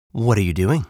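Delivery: lightly voiced fox, in a middle pitch; casual fox question, rising at end; curious fox. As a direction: ask evenly as a friendly fox.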